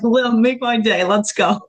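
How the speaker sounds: lightly voiced cocky challenge, as if spoiling for a fight; sarcastic provoking. Rehearsing a nasty comeback in her head, mock sarcastic dare. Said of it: "really sarcastic, nasty things".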